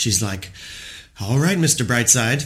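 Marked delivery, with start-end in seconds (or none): 1.2-2.5 fond exasperation, amused, half marveling. Quoting what she often says to him, mock-exasperated. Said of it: "with some combination of a bit of exasperation".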